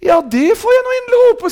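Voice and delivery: high-pitched, emphatic comeback; exclaimed, heartfelt mock retort; imitated preacher's retort. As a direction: fire back fervently as the quoted preacher. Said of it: "sa predikanten".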